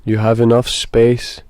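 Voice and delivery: measured meditation guide, long pauses between phrases; guided meditation. Acted. Guide asks listeners to breathe and settle, guided meditation. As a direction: lead them gently through it, leaving space.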